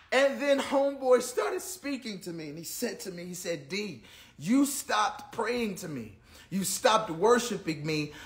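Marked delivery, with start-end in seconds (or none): 3.7-8.1 slow, soft, a lightly voiced gentle divine rebuke; God's voice. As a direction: speak slowly and softly, a lightly voiced God correcting him. Voicing God speaking to him.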